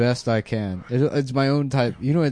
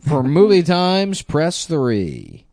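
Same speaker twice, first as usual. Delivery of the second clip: phone menu voice; 5 semitones higher, 3 dB louder, much slower than usual. Pretend. Mock automated phone menu.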